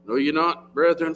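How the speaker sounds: usual speaking voice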